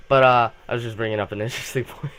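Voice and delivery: repeated quickly, breaking into a laugh. Real, not acted. Vlogger laughing at a zombie's face while repeating. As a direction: chuckle through the restart, a bit hurried. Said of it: "I'm laughing at the zombie's face now".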